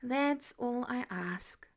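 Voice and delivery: breathy whispered resignation; sighed whisper. A narrator's reading. Peter sighing to Harry in a whisper. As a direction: let it out on a tired sigh. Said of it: "Peter just sighed".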